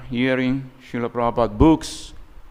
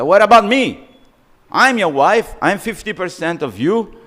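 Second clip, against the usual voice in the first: indignant complaint; 6 semitones higher, 3 dB louder than usual. Acted. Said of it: "she became very angry".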